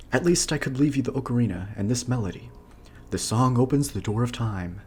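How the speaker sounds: lightly voiced princess. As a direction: speak as a young princess. Zelda message retaken.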